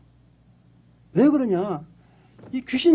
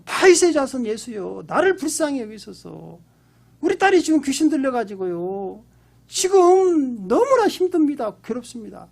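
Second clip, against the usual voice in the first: mildly raised, pleading call; retold crying out; 3 semitones higher than usual. Canaanite mother calling after Jesus for her daughter, mild retold cry. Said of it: "따라가면서 소리를 지른 거예요".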